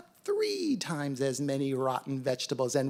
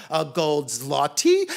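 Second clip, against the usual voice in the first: incredulous cats; 8 dB louder than usual. A narrator's reading. Cats amazed at offered money.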